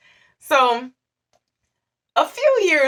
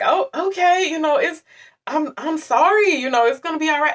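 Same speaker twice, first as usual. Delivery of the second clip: higher, soothing reassurance to a crying mother; gentle consoling; 8 semitones higher than usual. Retold or imitated.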